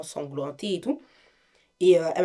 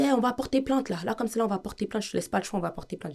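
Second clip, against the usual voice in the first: insistent father; 5 semitones higher, faster than usual. Retold or imitated. Father insists on pressing charges.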